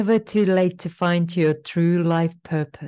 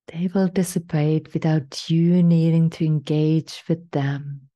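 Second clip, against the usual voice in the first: slow, soothing meditation voice with long pauses; guided meditation. Acted. Guide leading a listener to their life purpose, calm meditation voice. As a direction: guide the listener gently inward, unhurried.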